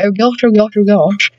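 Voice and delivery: posh aristocratic oh gosh; posh accent. Pretend. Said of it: "I sound like some posh aristocratic person".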